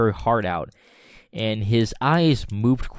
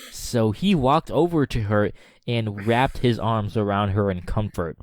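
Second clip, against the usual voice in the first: usual speaking voice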